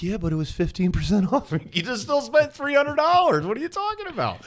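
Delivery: high, loud squeaky mock voice; imitating wife. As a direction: squeal it like a defensive spouse. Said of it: "You're like".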